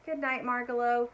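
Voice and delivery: calling out. Acted. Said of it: "called Stuart".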